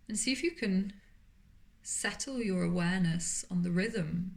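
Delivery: calm, unhurried voice with long pauses between phrases; guided meditation. Acted. Yoga teacher settling listeners into Yoga Nidra, calm guided meditation. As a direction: gently guide them into stillness, leaving space to breathe.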